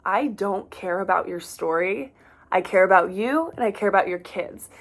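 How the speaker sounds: loving and respectful. Retold or imitated. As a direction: tell a hard truth with love and respect. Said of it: "I said with so much love and respect".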